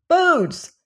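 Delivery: put-on high Cockney boy's exclamation; crying out. A narrator's reading. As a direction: cry out theatrically, pitch leaping. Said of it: "cried the boy".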